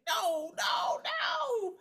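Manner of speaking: high laughing shout of no; laughing high denial. Retold or imitated. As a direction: squeal it out laughing. Mock answering the phone.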